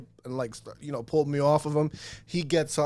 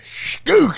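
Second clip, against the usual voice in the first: sharp, high "Skook!" shouted as a punch lands; punch sound effect; 7 dB louder than usual. Retold or imitated. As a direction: blurt a high, loud impact noise.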